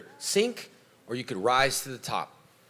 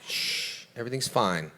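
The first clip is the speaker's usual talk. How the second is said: calm. Shown as a demonstration. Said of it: "That's how I remain calm".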